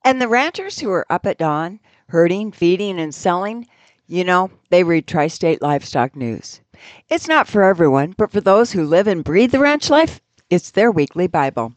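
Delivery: steady radio commercial read. Acted. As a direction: sell it like a farm-paper spot.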